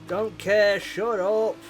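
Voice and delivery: angry snap. Real, not acted. Snapping at the race engineer.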